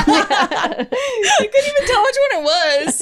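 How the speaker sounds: slow, high words broken by laughter; wheezing with laughter mid-sentence; laughing. Real, not acted. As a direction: barely get it out for laughing. Laughing hard at friend.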